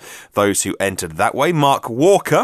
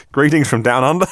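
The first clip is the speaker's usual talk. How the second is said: jokey attempt at an Aussie accent; Australian accent; 3 semitones higher than usual. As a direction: greet them in a badly faked Australian accent. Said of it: "I do the accent".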